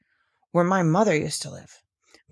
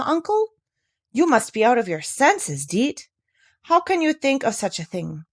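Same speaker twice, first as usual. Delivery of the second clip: shocked disbelief; 4 semitones higher, 3 dB louder than usual. Acted. Barbel shocked at Deet's plan.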